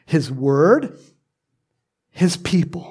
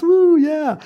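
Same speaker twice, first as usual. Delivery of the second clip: mock woo; 11 semitones higher, 5 dB louder than usual. Mocking delight over knickknacks.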